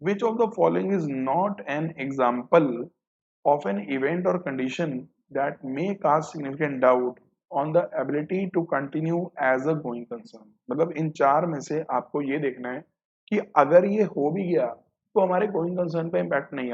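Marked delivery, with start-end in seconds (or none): 0.0-10.5 reading the option out slowly, word by word; slow, deliberate reading of an exam option. Shown as a demonstration. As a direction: dictate the option slowly for the class. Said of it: "question number four".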